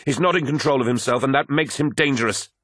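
high, strained, insistent warning. A narrator's reading. Apothecary to captain about violent comrade, warning. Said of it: "warned Vaden".

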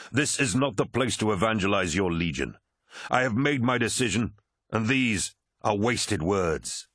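firm warlord, slowing at the end; stern Horus. Acted. Horus reprimands Erebus, stern and final. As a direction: shut the argument down with authority.

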